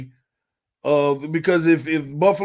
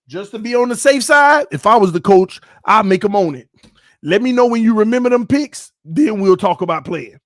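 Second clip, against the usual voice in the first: stern coach; 5 semitones higher, 7 dB louder than usual. Pretend.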